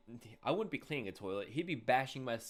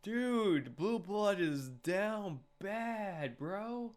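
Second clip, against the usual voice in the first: amused exclaim; 10 semitones higher, 4 dB louder, much slower than usual. Real, not acted. Laughing at a groveling character.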